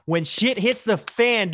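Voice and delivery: When shit hits the fan said slowly, word by word; spelled out slowly. Shown as a demonstration. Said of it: "this is explicit".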